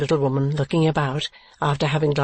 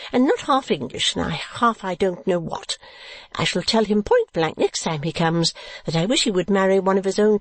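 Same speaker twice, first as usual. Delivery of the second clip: high, emphatic matronly declaring; emphatic mother; 6 semitones higher than usual. A narrator's reading. Mother objecting to a foreign match, emphatic. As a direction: declare it high, with firm stresses. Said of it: "said Missus Nickleby emphatically".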